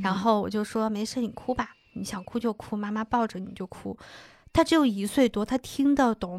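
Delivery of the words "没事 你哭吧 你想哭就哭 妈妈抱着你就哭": retold soothing mother, softer voice; soft comforting. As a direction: gently give the child permission to cry. Mother comforting her crying child. (轻声安慰孩子的语气)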